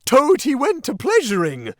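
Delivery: high, loud yelled mockery of the song; furious yell. A narrator's reading. Toad charging the Chief Weasel, yelling the song back in rage. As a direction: hurl the line back at them. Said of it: "he yelled".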